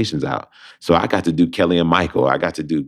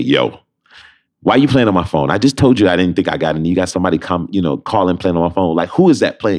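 louder, fed-up retold scolding; mock-scold the friend for pranking; mock annoyed; 4 dB louder than usual. Scolding his friend for a prank call, mock annoyed.

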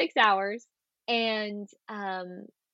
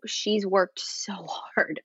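slow whisper; slow, hushed admiration; whispered emphasis; much slower than usual. Real, not acted. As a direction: whisper it with awe. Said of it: "unvoiced whisper, slow".

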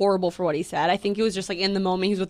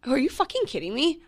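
mildly outraged, pitched up; retold anger; 5 semitones higher than usual. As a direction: replay an indignant comeback. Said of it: "I was so angry".

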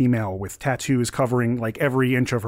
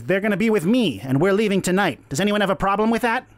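high, assertive challenge; young gnome captain; 8 semitones higher, faster than usual. Acted. Gnome daring the other captains to object, bold. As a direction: challenge the room in a raised voice. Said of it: "this fairly young gnomish female".

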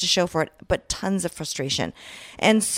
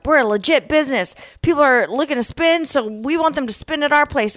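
confident; 7 semitones higher, 4 dB louder than usual. Retold or imitated. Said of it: "we were like".

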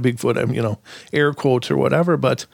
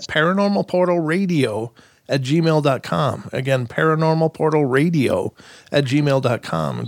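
slow dictation. Real, not acted. Dictating the email address.

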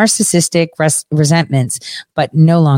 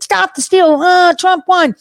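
shrill-sounding parody of a slogan-shouting fan, pitched way up; mock crazy ranter; 13 semitones higher than usual. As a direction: ham it up like an unhinged sloganeer. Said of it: "you speak like".

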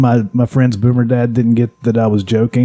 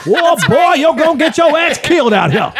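high, exaggerated put-on voice; hammed-up celebrity impression; Samuel L. Jackson impression. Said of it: "Sam Jackson impression".

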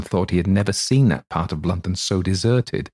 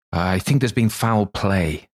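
hoarse; slower than usual. Acted. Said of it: "said Poole hoarsely".

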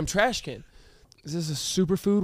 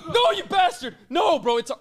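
mouth full; 9 semitones higher, slower than usual. Real, not acted. Gagging on mouthful of Vegemite.

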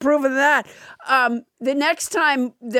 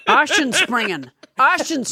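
fake German; 3 semitones higher than usual. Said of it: "that sounds like fake German to me".

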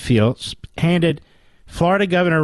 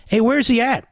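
high mock "where's he at"; mock game show voice; 8 semitones higher than usual. Host mimicking game show talk he overhears. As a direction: parody the game show contestant, pitched up. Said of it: "I'm walking by".

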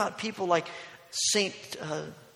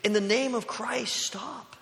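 higher-pitched mock yell; raised, pleading cry, not a full scream; retold scream; 7 semitones higher, 4 dB louder than usual. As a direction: imitate an urgent scream, held back. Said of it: "yell-, arms waving, screaming".

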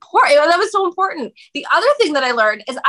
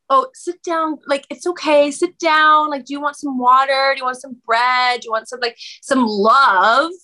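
lightly acted soothing, starting higher and settling; calming; 3 semitones higher than usual. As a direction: coax a belligerent drunk friend to settle. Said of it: "what would calm me down?".

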